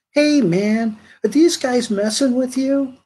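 retold tough circus guy. Circus guy runs up, confronts.

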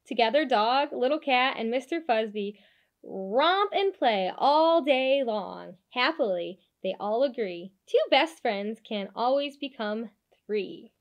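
put-on lively storybook narration for kids; animated picture-book read-aloud; reading to children. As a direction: read it like bedtime story time.

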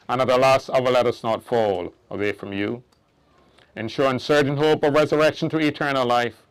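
solemn, hushed committal prayer; hushed graveside prayer. Real, not acted.

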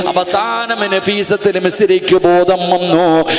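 loud, sing-song sermon cadence; full-force preaching. Acted. Preacher telling Nafeesa's story to the women, loud sing-song preaching.

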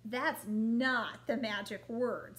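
slow, loud dragon voice; slow firm dragon. Acted. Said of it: "said the dragon".

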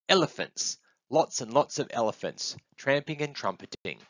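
eager, high-pitched guess; excited little one. Acted. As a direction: delight in the imagined animals.

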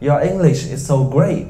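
impressed gushing compliment, slowed; mock admiring fan; admiring praise. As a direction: gush over a student's English. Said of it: "mọi người cứ bảo là".

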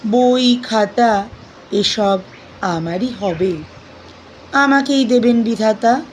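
measured, expressive verse reading with deliberate pauses; poem recitation. Acted. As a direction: recite the poem phrase by phrase, lingering on words.

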